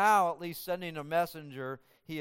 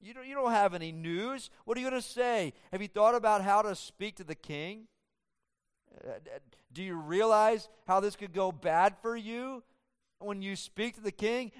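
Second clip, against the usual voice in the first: higher, probing questions to a rash youth; questioning rebuke; 5 semitones higher than usual. Retold or imitated. Joab questioning Ahimaaz, higher and probing. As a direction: press him with doubts. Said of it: "Joab saying to him".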